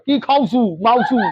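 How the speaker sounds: lightly mimicked Bangla, no real change in voice; a teacher's quick Bangla impression; Bangladeshi Bengali. Teacher imitates how Bangladeshi migrants talk, in light mock Bangla. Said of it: "ऐसे बोलते हैं".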